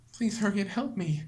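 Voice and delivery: beg, then cry out for help; desperate Monika calling for help; pleading to crying out. Acted.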